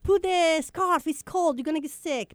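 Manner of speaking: mock-nag like an Italian nonna; imitating a nagging grandma. Grandma warning the kid to bundle up, lightly mock nagging. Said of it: "grandma tell you".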